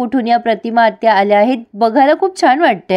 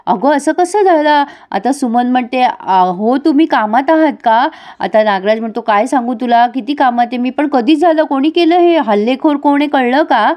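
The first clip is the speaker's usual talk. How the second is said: feigned shock; 3 semitones higher than usual. Retold or imitated. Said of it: "Nagraj असं दाखवतोय की त्याला काही माहितीच नाही".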